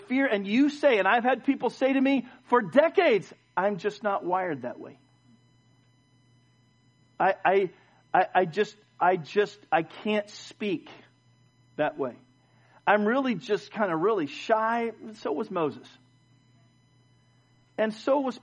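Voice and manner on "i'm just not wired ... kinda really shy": halting, stammered excuse with long pauses; imitating shyness. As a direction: play a timid churchgoer hesitating to speak. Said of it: "very shy and withdrawn".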